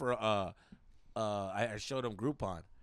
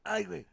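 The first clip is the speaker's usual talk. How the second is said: mock groan; 6 semitones higher than usual. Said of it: "he's over there groaning".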